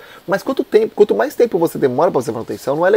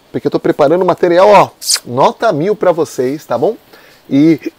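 with hiccups; 4 dB louder than usual. Real, not acted. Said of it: "rapaz, eu tô com soluço".

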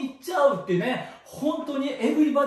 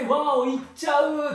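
excited whoop; 4 semitones higher than usual. Real, not acted. Exclaims over revealing it.

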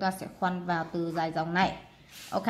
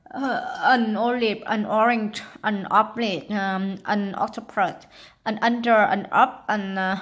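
each word called out louder; loud example list; 6 dB louder, slower than usual. Shown as a demonstration. Teacher calling out an-words to young learners. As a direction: belt out the examples for the class. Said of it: "chữ u chúng ta thêm vào".

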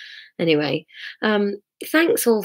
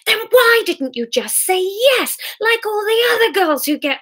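much higher, pushed indignant anger; angry retort; 13 semitones higher than usual. Acted. Hamish challenging Sarah, angry and raised. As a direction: fire it back at her.

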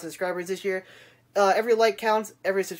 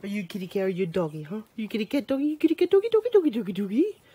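calling pets. Pretend. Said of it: "I'm gonna call my kitty cat".

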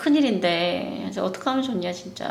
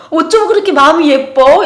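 gushing wonder; 7 semitones higher, 11 dB louder than usual. Retold or imitated. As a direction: marvel at an angelic child. Mother praising boy. (아이에게 감탄하며 크고 높게 천천히)

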